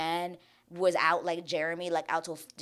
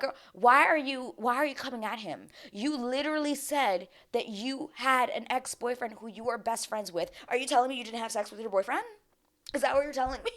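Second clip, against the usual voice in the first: incredulous challenge; 6 semitones higher than usual. Retold or imitated. Retelling own incredulous challenge to woman.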